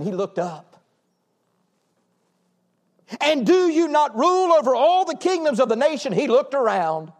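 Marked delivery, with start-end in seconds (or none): 3.2-6.1 higher, ringing appeal to God; pleading prayer. Acted. Preacher voicing the king's prayer before God, pleading.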